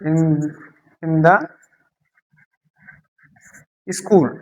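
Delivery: in the school said slowly, one word at a time with pauses. Shown as a demonstration. Teacher to students, slowly building a phrase word by word. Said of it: "जैसे कि मान लीजिए".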